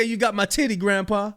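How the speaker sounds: imitated granddaughter. Host quoting granddaughter to grandpa, mock indignant. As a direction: lightly mimic an indignant granddaughter. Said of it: "She said".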